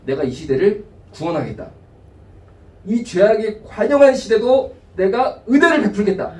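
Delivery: mild divine declaration; God's decree. Pretend. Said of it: "이렇게 결정을 하십니다".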